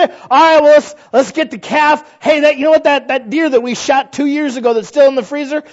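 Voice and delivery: lightly voiced father hunting for leftovers; mock stingy father. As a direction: play the cheapskate dad offering old freezer meat. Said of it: "He didn't say".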